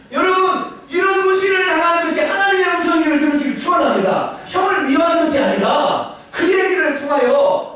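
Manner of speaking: high, loud shouted sermon; 목청을 높여 힘차게 외치듯 설교; fiery preaching. Real, not acted. Preaching at full force. (높고 크게 외치는 설교)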